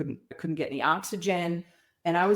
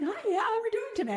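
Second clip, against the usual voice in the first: high, fast, cheery imitation of a Colombian doctor; a hint of a Colombian accent, bright and quick; faster than usual. Patient mimics her surgeon's Colombian accent, upbeat and high. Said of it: "he talks with this heavy Colombian accent".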